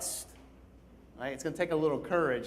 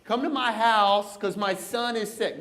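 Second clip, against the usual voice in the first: higher, louder desperate plea; begging father; 7 semitones higher, 4 dB louder than usual. Retold or imitated. Royal official begs Jesus to heal his son, desperate and high. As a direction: plead for your dying son. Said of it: "he's begging".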